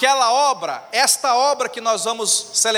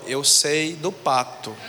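sly threat; 6 semitones lower than usual. Retold or imitated. Sister blackmails brother.

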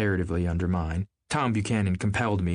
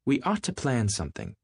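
yawning; 5 semitones higher than usual. Acted. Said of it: "yawned Miss Baker".

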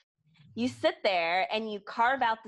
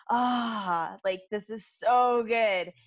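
drawn out delight; 3 dB louder, much slower than usual. Retold or imitated. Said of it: "I'm just like".

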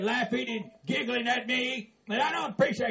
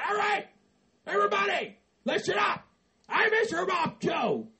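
calling out; 5 semitones higher than usual. Acted. Addressing everyone loudly.

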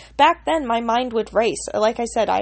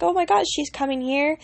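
excited; 5 semitones higher than usual. Retold or imitated. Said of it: "And I was so excited".

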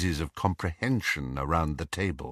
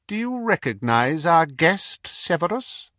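high, cold, mocking villain voice; cold dark lord; 8 semitones higher than usual. Dark lord mocking the Death Eaters, cold and sneering. Voldemort asks Snape.

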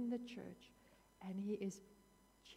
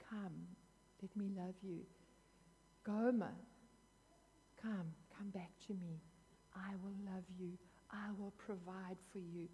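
tender pleading; 4 dB quieter than usual. Retold or imitated. God softly calling Gomer to come back home, tender and gentle. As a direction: coax her home softly and lovingly.

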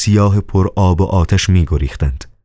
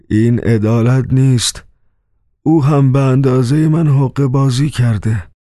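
higher, indignant outcry; bitter protest; 7 semitones higher than usual. A narrator's reading. Dismas cries out against the other prisoner, indignant protest. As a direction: protest the unfairness from the cross. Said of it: "صدای دیزماس شنیده شد".

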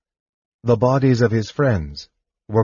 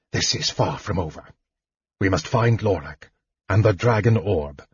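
lightly voiced frail sorcerer; a touch hushed but resolved; Raistlin, spent mage. Voices Raistlin setting out again.

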